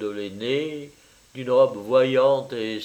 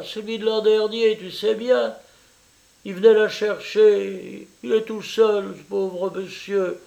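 higher, effusive Italian mother welcoming a guest; eager landlady mother; 9 semitones higher, 4 dB louder than usual. Acted. Mother welcoming her daughter's French lover, eager and high. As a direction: gush over the visitor, pitched up.

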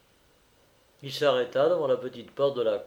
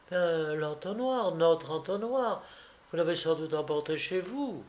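lightly voiced girl, a bit higher; a matter-of-fact peasant girl; young woman's voice; 5 semitones higher than usual. Vassilissa asks the suitor about the funnel, higher.

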